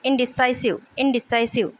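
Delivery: इनडिसाइसिव as in-di-SAI-siv, falling; dictionary-style इनडिसाइसिव with a falling end; pronunciation demo. Shown as a demonstration. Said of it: "इसका pronunciation ये हो जाएगा".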